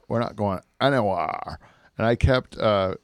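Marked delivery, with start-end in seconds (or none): 0.1-1.6 imitated lesbian accent, drawled last word. Host repeating the protester's line, lesbian accent. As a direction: mimic the lesbian accent on "anywhere". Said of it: "I think that's a lesbian accent".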